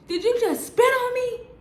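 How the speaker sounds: high, incredulous squeal; mock boyfriend outrage. Boyfriend after being spat on, high incredulous voice. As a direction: squeak it out in shock. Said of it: "He like".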